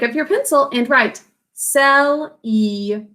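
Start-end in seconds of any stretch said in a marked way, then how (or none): 1.5-3.1 "celebration" in separated syllables, sel, ee, bray, shan; spelling pronunciation. Shown as a demonstration. Teacher dictating for pencils to write, "celebration" as sel-ee-bray-shan. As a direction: dictate "celebration" slowly with every vowel full. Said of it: "to pronounce this as celebration".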